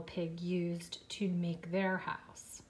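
whisper. Real, not acted. Asking children softly.

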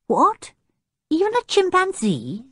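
high, shocked disbelief; in horror. A narrator's reading. Anne horrified by the chimp, high shocked question. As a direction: gasp it out, horrified. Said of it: "said Anne in horror".

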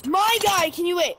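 fed-up gamer yell; exasperated call-out. Real, not acted. Exasperated at game opponent.

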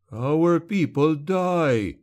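a villager snarling his grief at the witch hunter; snarled. A narrator's reading. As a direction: spit it out slowly with fury. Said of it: "snarled a third man".

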